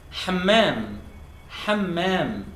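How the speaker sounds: Hammam, strong throat H and long m; Hammam with throaty H. Shown as a demonstration. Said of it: "Bathroom in Arabic is".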